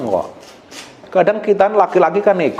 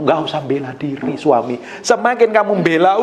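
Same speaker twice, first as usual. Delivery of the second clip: ordinary talk, nothing marked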